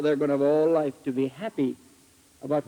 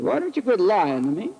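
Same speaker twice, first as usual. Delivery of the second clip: pointed, higher-pitched repeat; nasty retort; 5 semitones higher than usual. Retold or imitated. Preacher repeats his accusation to the woman, nasty retort. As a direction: press the accusation harder, pitched up. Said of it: "I could be awful nasty".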